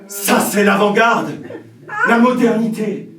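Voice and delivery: proclaiming. Acted. Producer raving about actorless film.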